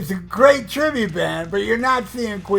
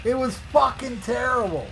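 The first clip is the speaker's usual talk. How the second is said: outburst; 3 semitones higher than usual. Real, not acted. Ranting about the bad album.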